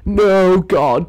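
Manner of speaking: loud, high panicked cry; hammed-up desperate plea; mock panic. Acts out panic at being threatened.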